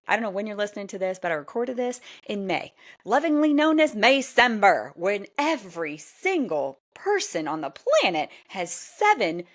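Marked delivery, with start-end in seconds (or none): 3.0-4.9 sarcastic quip. Acted. Sarcastic nickname for busy May.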